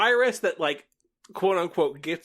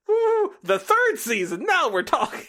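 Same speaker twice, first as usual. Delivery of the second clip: mock excited fan; 12 semitones higher, 5 dB louder than usual. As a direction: sell the third season like a thrilled fan. Fans hyping the third season.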